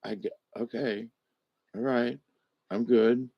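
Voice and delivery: quiet okay to a hovering friend; soft placating. Retold or imitated. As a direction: talk her down quietly. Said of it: "And I'm like".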